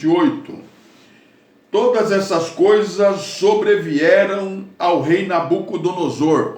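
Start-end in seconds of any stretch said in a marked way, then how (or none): 1.7-6.6 emphatic scripture reading. Shown as a demonstration. Preacher proclaiming the verse to the congregation, emphatic. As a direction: read it out like a proclamation. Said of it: "Olha aí".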